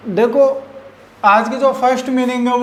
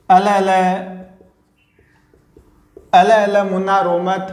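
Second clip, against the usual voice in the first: put-on hushing a baby; 5 semitones lower than usual. Parent quieting a crying baby, lightly voiced. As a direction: soothe a crying baby gently. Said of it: "ऐसे बोलते हैं ना".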